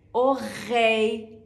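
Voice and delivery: اوری drawn out with the throaty French r; اوری را آهسته و با ر گلویی بگو. Shown as a demonstration. (اوری با ر فرانسوی بین غ و خ)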